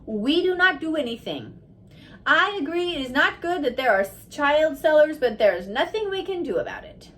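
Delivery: lightly voiced mandarin, stressing each word; great emphasis. A narrator's reading. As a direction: lay heavy weight on the refusal. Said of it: "with great emphasis he said".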